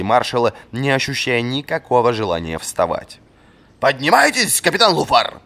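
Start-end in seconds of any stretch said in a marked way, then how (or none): 3.8-5.4 high, loud command to rise; shouted order. A narrator's reading. Old master shouting at the captain on the ground. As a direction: yell at him to get up. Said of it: "крикнул Варус".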